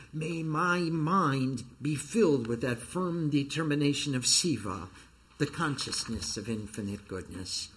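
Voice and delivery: solemn, measured reading of sacred verses; intoned prayer reading; scripture recitation. Acted. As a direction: recite it as a devotional invocation, each phrase sustained and settling at its close. Reads sacred verses aloud in translation.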